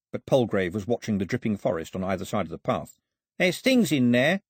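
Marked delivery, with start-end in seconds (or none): 3.4-4.4 slow, high-pitched frightened moan; fearful moan. Acted. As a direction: moan it nervously, louder and higher. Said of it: "he moaned".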